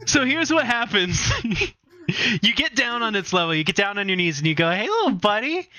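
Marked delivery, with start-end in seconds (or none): 4.7-5.6 very high, cutesy little-buddy voice; coaxing pet talk. Acted. Game master voicing player asking mini minotaur a favor, high coaxing. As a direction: coax it like a tiny pet.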